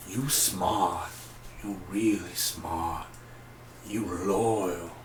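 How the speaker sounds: a deliberately bad take on the president, slow and low; imitating the president doling out advice, badly; bad president impression. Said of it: "that was my horrible impression".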